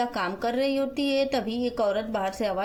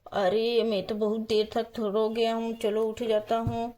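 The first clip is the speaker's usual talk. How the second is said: man waking up. Acted. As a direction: lightly play a man getting up from sleep. Divyam wakes, voiced by storyteller. (नींद से उठे आदमी की आवाज़)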